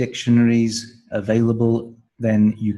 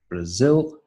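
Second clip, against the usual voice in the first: bra-ZIL, clearly weighted on the end; stress on second syllable. Shown as a demonstration. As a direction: lean on the ZIL in Brazil. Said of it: "the stress is on the second syllable".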